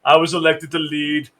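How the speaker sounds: lightly put-on Austrian accent; Arnold Schwarzenegger. Mocking unthinking enforcers, Austrian accent impression. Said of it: "they're like Arnold Schwarzenegger in".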